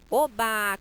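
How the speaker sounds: loud happy shout; joyful cry. Shown as a demonstration. Teacher acting a student passing, joyful cry. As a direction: cheer it out. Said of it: "pronunciar da forma como eu queria".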